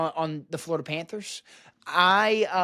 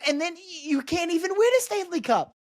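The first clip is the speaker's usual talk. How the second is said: gloating; 11 semitones higher than usual. Real, not acted. Gloating at Canadian fans.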